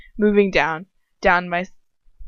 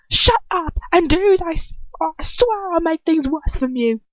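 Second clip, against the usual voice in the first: threatening snarl; 10 semitones higher, 4 dB louder than usual. Acted. Dolohov threatening, hand over mouth.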